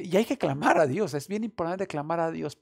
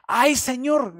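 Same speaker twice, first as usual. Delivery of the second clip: loud high cry of dismay; anguished cry; 7 semitones higher, 9 dB louder, slower than usual. Retold or imitated. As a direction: cry out to the Lord in alarm. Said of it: "gritó".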